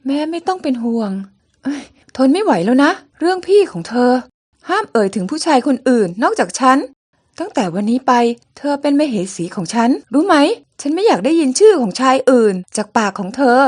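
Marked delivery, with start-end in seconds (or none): 1.6-13.6 louder, possessive scolding; jealous anger. Acted. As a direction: order her to forget him, angrily. Jealous king scolds his bride. (ตวาดด้วยความหึงหวง เสียงดังขึ้น)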